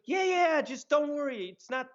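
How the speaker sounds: high-pitched mock calling out; retold yell. Prankster calling to a nervous friend in an alley, mock holler. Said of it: "he yells out".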